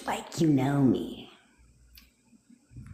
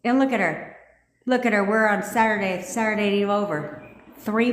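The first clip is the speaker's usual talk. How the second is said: proud excitement; 5 semitones higher than usual. Real, not acted. Proud of a viewer's result.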